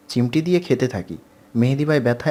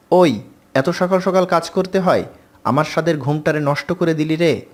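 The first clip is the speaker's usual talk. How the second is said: raised, higher complaining yell; shouting; 3 semitones higher than usual. Acted. Girl yelling at workers who woke her, a raised yell. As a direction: yell it out from under the pillow. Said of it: "চিৎকার করে বলি".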